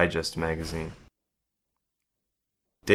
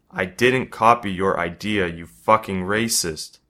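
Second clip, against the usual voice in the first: louder, yelling back at the bully; 3 dB louder than usual. Acted. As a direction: finally snap and yell it. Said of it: "he yells".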